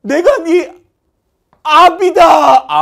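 very high, loud, slow declaration; father shouting. Acted. Father shouting to his lost son in the meeting room, slow and loud. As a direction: stretch it out like a melodrama father. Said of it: "아빠가 외칩니다".

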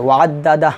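ওয়াদ্দাদা closed on a vowelless "h"; stopped ending. Shown as a demonstration. Teacher showing the stop at waqf, vowelless ending. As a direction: cut the final hu of ওয়াদ্দাদা to bare h. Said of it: "ওয়াকফ ধরলে".

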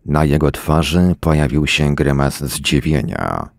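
ordinary delivery

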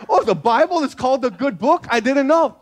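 the penny drops; new believer surprised at the name; sudden realization. Retold or imitated. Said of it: "I was like".

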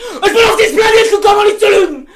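loud, very slow, insistent protest; indignant shouting. Real, not acted. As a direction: drag it out and yell that you're not lying. Heftige Beschuldigung beim Spiel. (lauter, sehr langsamer, empörter Protest)

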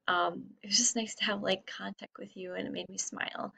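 soft unvoiced whisper. Real, not acted. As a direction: whisper it tenderly. Tender aside to missed students.

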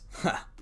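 a small breath of amusement; short acted laugh. Narrator voices character's amused reaction.

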